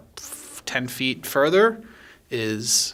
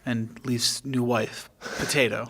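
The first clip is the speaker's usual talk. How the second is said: measured narrator's scene-setting read; steady narration over music; game master scene setting. Acted. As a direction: set the scene for the players. GM sets the scene.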